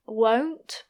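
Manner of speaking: won't with a sounded final T; careful won't. Shown as a demonstration. Teacher showing learners a careful won't. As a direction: pronounce the T at the end of won't. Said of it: "I don't usually pronounce the T".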